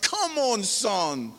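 high start, dropping away; exasperated plea. Retold or imitated. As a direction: imitate a dad pleading with his son. Father remonstrating with son.

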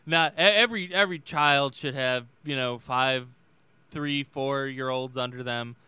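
lightly voiced imitation of a politician's rambling rhythm; a halting debate answer, restarting phrases as it goes; Joe Biden. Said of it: "And then, and then Biden came in going".

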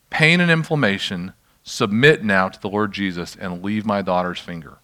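measured, authoritative order, retold; firm command. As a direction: tell it to submit, without shouting. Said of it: "I told it to submit".

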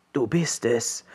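softly voiced frog, a touch incredulous; slightly disbelieving frog. A narrator's reading. Healed frog recognises the chosen one, mildly disbelieving. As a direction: marvel lightly as the troll frog. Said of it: "sagte der Trollfrosch etwas ungläubig".

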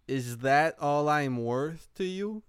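slow, hammed-up hurt plea; mock pouty plea. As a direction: act wounded and pleading, slowly. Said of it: "Avec comme une face". (plainte boudeuse et blessée, en imitant)

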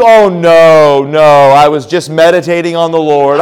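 hammed-up wide-awake pastor; pretending not asleep. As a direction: laugh while faking being wide awake. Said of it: "pretend like we don't sleep".

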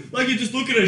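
high loud laughter into the words; cracking up mid-sentence; laughing. Real, not acted. Host laughing while describing the woman, real laughter.

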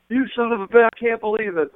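high-pitched, amused incredulity; imitated tickled disbelief. Wrestler trying to control himself at friend's stunt, imitated amused disbelief. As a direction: marvel at it, barely keeping control. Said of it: "He's laughing. He's having a great time".

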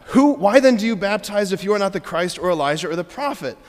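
lively, insistent question; animated questioning. Acted. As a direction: ask it with real curiosity. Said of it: "Do you hear the difference".

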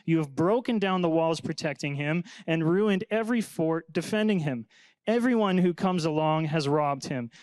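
earnest Bible reading, a touch lifted; scripture reading. Acted. Pastor reads Ethan's psalm to the class, earnestly. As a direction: read the psalm as a heartfelt prayer.

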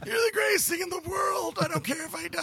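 put-on baby-talk the cat, besotted; doting on a cat. Allergic man tells the little cat he loves it, high gushing voice. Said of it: "but I'm still like".

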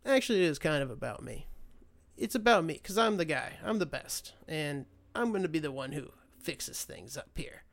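a smirk in the voice, bragging mock Trump; lightly voiced boastful president. Trump smirking to his rally crowd, mock bragging. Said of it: "he kinda smirks and goes".

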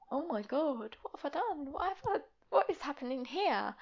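high, panicked dismay; shocked. Retold or imitated. Reacting to fiancé's outburst, shocked. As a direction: gasp out the alarm. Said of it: "And I'm like".

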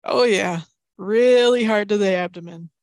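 lightly imitating a TV commentator, deadpan; broadcaster impression. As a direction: repeat it like a commentator stuck on one phrase. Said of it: "the speaker kept going".

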